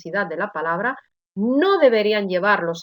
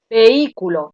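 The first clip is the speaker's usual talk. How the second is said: vehículo with a loud stressed Í; 5 dB louder than usual. Shown as a demonstration. Teacher giving students the solution, stressed Í in vehículo. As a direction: punch the Í in vehículo. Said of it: "la I en todos estos casos se oye con mayor intensidad".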